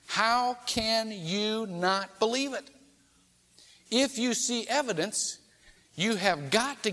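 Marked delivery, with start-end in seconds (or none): 0.1-2.7 "How can you not believe it?" drawn out slowly, each word weighed; slow down and lean on every word; slow, pressing repeat. Shown as a demonstration. Preacher repeating Jesus' challenge to skeptics, slow and emphatic. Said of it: "You're seeing the evidence".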